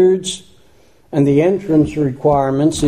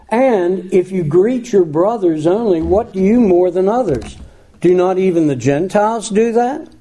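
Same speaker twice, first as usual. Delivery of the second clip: raised, measured reading of a Bible passage; scripture reading; 3 semitones higher than usual. Acted. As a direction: lift the verse up as you read it to the congregation. Reads scripture aloud in sermon.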